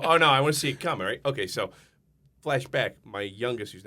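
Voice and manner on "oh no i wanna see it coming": imitating Philly guy. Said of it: "everybody from Philly will go".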